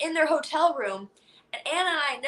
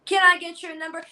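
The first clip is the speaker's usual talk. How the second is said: lightly imitated sketch-show flirt, pitched up; mock Italian machismo, a little higher; macho pickup impression; 4 semitones higher, 4 dB louder than usual.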